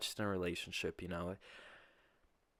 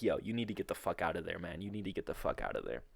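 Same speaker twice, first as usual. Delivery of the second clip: urgent friend; 3 semitones lower, 5 dB quieter, faster than usual. Retold or imitated.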